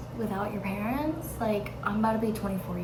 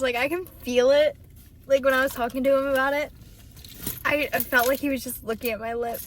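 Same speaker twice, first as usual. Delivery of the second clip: numb lip after the dentist; numb mouth; 3 semitones higher, faster than usual. Real, not acted. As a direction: speak round a numb lip. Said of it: "My mouth is numb".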